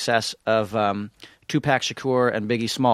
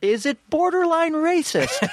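imitating the executive; slower than usual. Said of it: "he was like".

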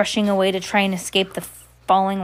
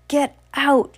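put-on high, loud shout at the girls; 7 semitones higher, 4 dB louder than usual. Max yelling at two girls to leave. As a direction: drive them out with a yell. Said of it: "he shouted at the two girls".

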